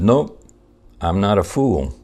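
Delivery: smug, firm comeback; triumphant turnabout. Retold or imitated. Tourist tells the con man to wait, smug firm mock triumph.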